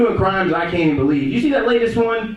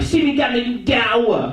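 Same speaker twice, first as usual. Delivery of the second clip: slow, high mock Jamaican accent; drawn-out comic Jamaican patois; 5 semitones higher, slower than usual. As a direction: imitate a thick, hard-to-follow Jamaican accent. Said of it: "He got a hard Jamaican accent".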